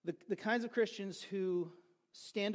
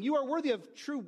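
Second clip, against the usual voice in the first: mildly raised herald's call; higher-pitched mock proclamation of praise; herald's acclamation; 4 semitones higher than usual. Crowd offering the emperor religious worship, lightly proclaimed. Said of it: "they would yell out".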